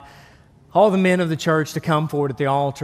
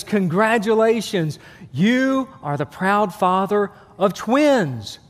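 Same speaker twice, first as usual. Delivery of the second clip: nurse announcing; 3 semitones higher, slower than usual. Acted. Nurse announces births in joke.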